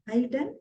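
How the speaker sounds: ARE YOU DONE quick and soft, rising at the end. Shown as a demonstration. Teacher varying the intonation, soft rising ARE YOU DONE. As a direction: ask ARE YOU DONE softly with a lift. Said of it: "That intonation".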